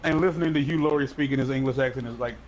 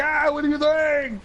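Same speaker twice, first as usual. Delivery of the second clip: hammed-up wail of alarm, pitched way up; mock alarm; 9 semitones higher than usual. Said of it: "otherwise you'd be like".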